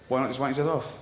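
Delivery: laughing casual suggestion. Shown as a demonstration. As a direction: toss it off casually. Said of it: "but casual".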